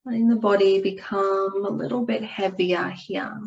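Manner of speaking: calm, unhurried yoga nidra guidance with long pauses; guided meditation. Acted. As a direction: ease them gently into rest and stillness. Leads a guided relaxation.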